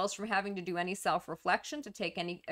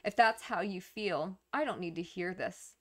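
cold and aloof. Acted. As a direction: act mildly hurt and shut them out. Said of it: "act very cold and aloof".

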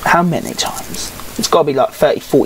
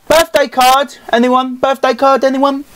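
high mock calling out; 8 semitones higher than usual. Calling out for a pack reward.

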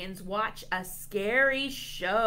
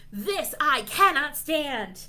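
loud, high exasperated shriek; worn-out shriek; 6 semitones higher, 7 dB louder than usual. A narrator's reading. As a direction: shriek it, punching every word. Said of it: "One worn dragon shrieks".

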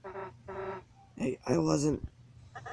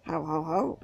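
lightly voiced villain ho ho ho; a small cartoon villain chuckle; evil laugh; 3 semitones higher than usual. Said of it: "That's my evil laugh".

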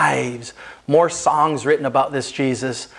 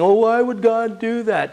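raised, puzzled skeptic's question, lightly voiced; skeptic asking; 6 semitones higher than usual. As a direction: ask it like a doubter who can't understand. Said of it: "some people think".

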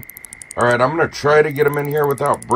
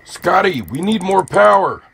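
Star Trek captain; 4 semitones higher than usual. Pretend.

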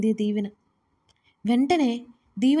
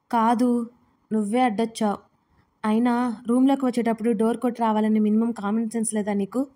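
plain reading voice

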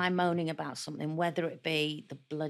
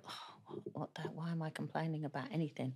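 mock self-reproach; 12 dB quieter than usual.

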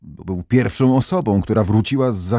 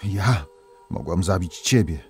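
hushed stern princess; 3 semitones lower, 7 dB quieter than usual. Acted. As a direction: speak down low like a vengeful spirit. Princess speaks her curse to king.

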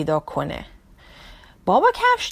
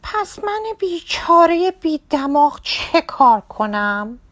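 sad; 7 semitones higher, 4 dB louder than usual. Acted. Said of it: "با ناراحتی گفت".

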